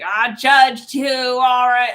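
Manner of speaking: put-on loud, stretched-out Texan accent. Reader voicing someone admitting they judged, loud Texan accent. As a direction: belt it out slowly in mock Texan. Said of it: "can't even get out of the accent now".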